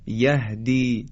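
"یهدی" with a breathed, unconstricted h; open round h. Shown as a demonstration. Teacher models یهدی again with open ه. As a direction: loosen the throat for the ه in "یهدی". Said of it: "پس های دو چشم مثل".

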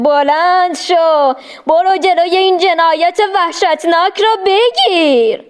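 stirring devil urging her; urgent devil. A narrator's reading. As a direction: rush her into panic. Devil alarming Hajar.

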